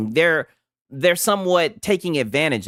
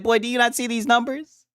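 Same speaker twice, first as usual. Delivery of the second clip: mock executive; 5 semitones higher than usual. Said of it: "They'd be like".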